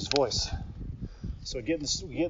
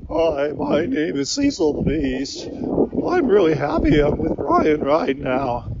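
slow, slightly put-on stuffed-animal voice; Cecil the Beast voice; 3 dB louder, slower than usual. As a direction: draw out each word like a cuddly beast. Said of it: "this is his voice".

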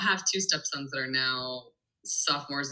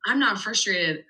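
put-on higher, louder, drawn-out small-child protest; imitated mad three-year-old; 3 semitones higher, 5 dB louder, much slower than usual. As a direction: mimic a preschooler insisting, stretching the last words. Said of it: "my three-year-old's like".

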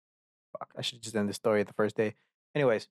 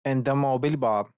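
attempted Southern accent; 2 semitones higher, 4 dB louder than usual. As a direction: have a loose go at a Southern accent. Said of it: "Was that even a Southern accent?".

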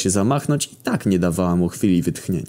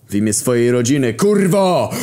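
much higher, louder battle cry on the swing; furious yell; 6 semitones higher, 5 dB louder than usual. A narrator's reading. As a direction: scream it while striking. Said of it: "wrzasnął podstępnym zamachem".

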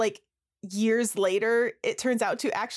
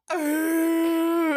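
raised gruff Sasquatch-call grunt; bigfoot grunting; 6 semitones higher than usual. Retold or imitated. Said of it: "him on camera going".

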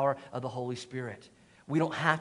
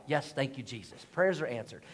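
soft, relieved little prayer of thanks; 4 semitones lower, 6 dB quieter than usual. Retold or imitated. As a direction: breathe out a grateful thank you Jesus, much softer. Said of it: "And I'm like".

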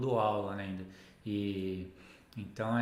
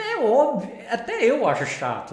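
light, amused burst of agreement; emphatic agreement; 8 semitones higher, 6 dB louder than usual. Acted. Teacher voicing a reply about boring exercises, emphatic agreement. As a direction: exclaim it high and loud, half laughing. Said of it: "Você fala".

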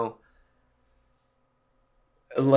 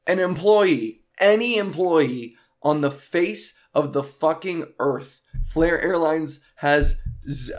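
heated rant; 4 semitones higher than usual. Real, not acted. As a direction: vent it all, fired up. Ranting about a delayed flight.

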